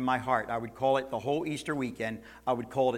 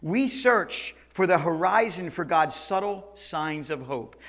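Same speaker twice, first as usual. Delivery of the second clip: ordinary talk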